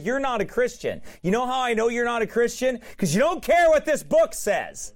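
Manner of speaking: high, emphatic pulpit rebuke; forceful preaching. Real, not acted. Preacher telling a scoffer he is no Christian, forceful preaching. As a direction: preach it as a mounting accusation.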